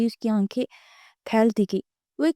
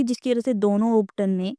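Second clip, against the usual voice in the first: usual speaking voice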